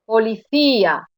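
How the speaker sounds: policía with the Í stressed, falling after it. Shown as a demonstration. Teacher giving students the solution, stressed Í in policía. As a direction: lean on the Í in policía. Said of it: "la I en todos estos casos se oye con mayor intensidad".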